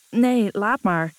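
slow, groaned protest from the drenched man; groaning. A narrator's reading. Drenched Lucas groans at the sprayed water, slow groan. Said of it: "kreunt Lucas".

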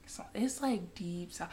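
hushed, breathy confiding; whispered aside. Real, not acted. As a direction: drop to a secret whisper. Gossip about local people.

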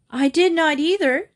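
put-on high, loud girlish shriek of denial. A narrator's reading. Little girl shrieks at Nicky in denial, high and loud. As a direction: shriek it back, outraged. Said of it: "Sylvia shrieked".

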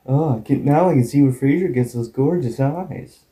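lightly imitated shaky attempt at American accent; mildly mock American accent; bad American accent. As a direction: try an American accent, not quite convincingly. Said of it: "she sounds bad at it".

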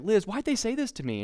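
high, teary mock complaint; imitating his younger self, a high tearful whine. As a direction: whimper it like you came home crying. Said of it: "I would come home just in tears".

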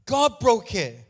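loud, high, emphatic preacher's cry; full-force preaching. Acted. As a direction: drive the point home to the congregation.

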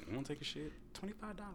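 high, soft mock Asian accent. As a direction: do a quick put-on Asian accent. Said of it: "Why did I just do an Asian accent?".

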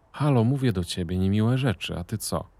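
annoyed woman demands an answer from the silent narrator; indignant call-out. A narrator's reading. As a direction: snap at him to get a reaction. Woman scolds silent companion.

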